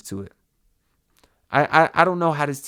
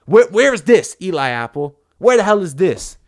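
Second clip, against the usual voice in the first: much higher, louder furious yell; angry shout; 4 semitones higher, 7 dB louder than usual. Real, not acted. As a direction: yell at the player who gave up the touchdown. Raging at a missed play.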